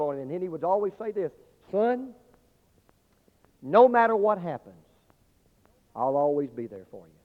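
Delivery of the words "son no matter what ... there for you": tender promise. Acted. Father's daily promise to son.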